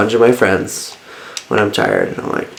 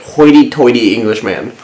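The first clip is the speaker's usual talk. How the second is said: slow, mock-posh English drawl. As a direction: put on a snooty English accent. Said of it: "his face was just like".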